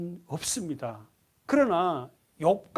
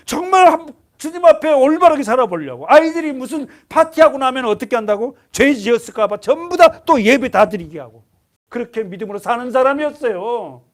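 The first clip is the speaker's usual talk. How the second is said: loud, raised preaching voice; fiery preaching; 6 semitones higher, 11 dB louder than usual. Acted. Preacher exhorting the congregation, loud and fervent. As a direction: proclaim it to the whole hall.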